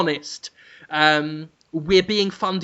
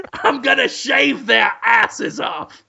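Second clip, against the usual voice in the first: Cruellum Dafoe; 3 semitones higher than usual. Pretend. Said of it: "but I am Cruellum Dafoe".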